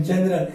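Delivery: जनरल with G said as ज; soft G pronunciation. Shown as a demonstration. Teacher showing students how G sounds before E, j sound in जनरल. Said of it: "ज पढ़ेंगे".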